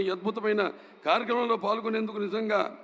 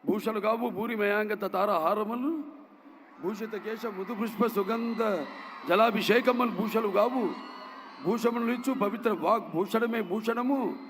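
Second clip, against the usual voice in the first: poem recitation. Acted. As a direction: recite it like classical verse. Recites a classical Telugu poem.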